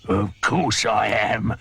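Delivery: slow, matter-of-fact gloat; smug crocodile. Acted. The crocodile confirming his plan to the hippo, smug.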